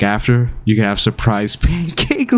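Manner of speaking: deadpan words breaking into laughter; laughing through a monotone quote. Retold or imitated. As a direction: try to stay flat but laugh. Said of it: "a complete monotone".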